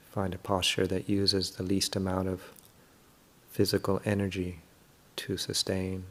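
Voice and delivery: calm, unhurried meditation guidance with long pauses; guided meditation. Real, not acted. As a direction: gently guide listeners through settling the body.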